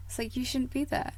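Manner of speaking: ordinary talk, nothing marked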